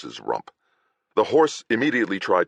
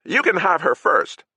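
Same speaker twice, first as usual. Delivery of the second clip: higher, louder crude jeer; leering knight; 12 semitones higher, 4 dB louder than usual. Acted. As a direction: egg him on with a sneer. Knight leering over captive woman.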